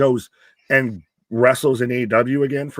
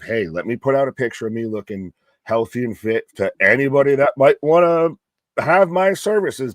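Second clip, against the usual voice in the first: mock self-promotion; 5 dB louder than usual. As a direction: imitate someone showily offering himself around. Acts out Jericho's supposed pitch.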